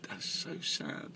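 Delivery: breathy whispered northern English; northern accent. Retold or imitated. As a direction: drop to a hushed northern English aside. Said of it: "in his northern accent".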